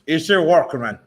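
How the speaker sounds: put-on a light Cuban gangster accent, Tony Montana style; mock Scarface accent. A boxer teased in a mock Scarface accent. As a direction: tease him with a hint of Scarface. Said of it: "That's Scarface".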